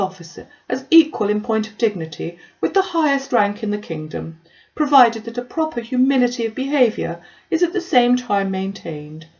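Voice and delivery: put-on condescending parson lecturing a young lady; lightly voiced self-important Collins. Collins lectures Elizabeth on clergy.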